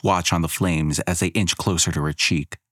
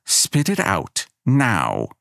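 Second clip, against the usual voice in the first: growled; 4 semitones higher, much slower than usual. Acted. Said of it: "she growls".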